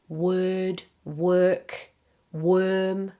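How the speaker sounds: word, work, worm each with "er"; er vowel. Shown as a demonstration. Teacher listing words to check, all with er vowel. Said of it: "it is er".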